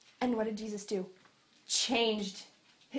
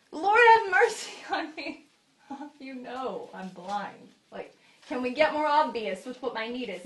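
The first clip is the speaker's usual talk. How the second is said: pleading cry; 3 dB louder than usual. Pretend. Blind man crying out to Jesus, loud laughing plea. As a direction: beg loudly with a laugh.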